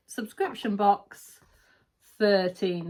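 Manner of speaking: slow, drawn-out reveal of the box name; slow announcement. Shown as a demonstration. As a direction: announce it slowly like a title. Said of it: "There's no spoilers on this".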